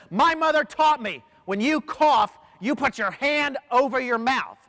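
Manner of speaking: high, loud, slow scolding; retold scream. Woman in the elevator scolds the coughing man, mock yell. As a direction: scold him like an offended stranger. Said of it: "screamed, and she says".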